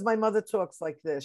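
imitated Brooklyn mother; Brooklyn accent. Guest showing host how mother talks, Brooklyn accent. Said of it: "She's from Brooklyn".

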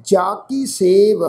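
slow, measured verse reading with pauses; slow sacred-verse recital; scripture recitation. Shown as a demonstration. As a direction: recite each phrase deliberately, drawing out the words.

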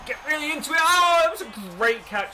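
sudden loud burst of delight; excited outburst. Real, not acted. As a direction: break off to cheer the catch. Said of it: "Sorry, I had to comment on that catch".

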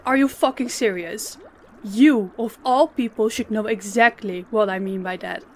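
menacing boss, rising to a hard command; furious boss ordering him to kneel; cold threat. Acted. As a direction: lay down the law to the employee. Boss threatening a cowering employee.

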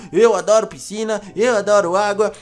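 can't wait to jump in; excited. Real, not acted. Kid at the pool telling the vampire girl, excited.

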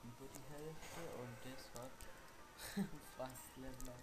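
distant, off-mic voice; speaking away from the microphone; far from mic. Real, not acted. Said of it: "hört kaum meinen Cousin".

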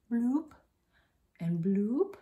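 little rising "bloop" effect; dab-on noise, pitch swooping up; cartoony rising bloop; playful bloop. Playful noises while dabbing on highlighter.

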